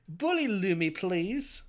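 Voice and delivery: high, loud whiny begging. Acted. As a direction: plead in the whiniest put-on voice. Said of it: "read that in the whiniest voice you can".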